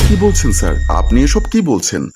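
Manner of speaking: taken aback and objecting at the proposal; startled, indignant question; shocked protest. Acted. Shocked by boss's hotel proposal.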